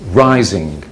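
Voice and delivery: "rising" said with a falling tone; rising tune. Shown as a demonstration. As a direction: demo the word "rising" sliding. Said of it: "Going up, rising".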